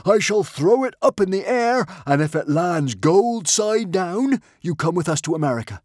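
loud, slow, building to a soaring shriek; mad yell. Acted. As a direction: play the crowd then explode on the last words. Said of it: "yelled Norbert the Nutjob".

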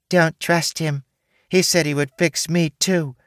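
put-on high, soft childlike doe voice; a talking doe warning them sweetly; soft baby voice. A narrator's reading. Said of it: "with a soft and beautiful baby's voice".

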